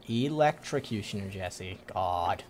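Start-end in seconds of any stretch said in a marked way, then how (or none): 0.1-1.3 "Electrocutioner" in one go with the tra sounded; corrected pronunciation. Shown as a demonstration. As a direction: repeat "Electrocutioner" correctly, ee-lec-tra-cutioner. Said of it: "I almost said electrocutioner".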